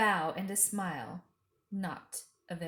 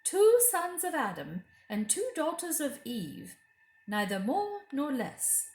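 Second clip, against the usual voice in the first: high, louder probing queen voice; suspicious Queen; 6 semitones higher, 4 dB louder than usual. A narrator's reading. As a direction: press him like a queen who suspects. The Queen's voice in narration.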